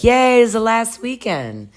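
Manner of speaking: high squeal of joy; mock-giddy cheer; excited. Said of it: "she's all excited".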